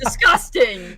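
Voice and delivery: loud laughing disgust; laughing groan of disgust. Real, not acted. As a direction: cry out through laughter. Laughing at old OC.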